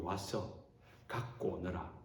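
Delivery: soft, hushed voice of Jesus; gentle call. Acted. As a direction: call them in gently, quietly. Preacher voices Jesus softly. (조용하고 부드럽게 부르는 예수님)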